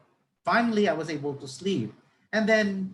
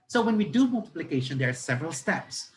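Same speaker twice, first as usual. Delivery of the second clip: higher-pitched, lively teacher addressing a class; conversational teacher; 5 semitones higher than usual. Shown as a demonstration. Teacher introduces multiplication to students, conversational classroom voice. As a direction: chat the lesson to students, pitched up. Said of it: "Para ka lang nakipag-usap".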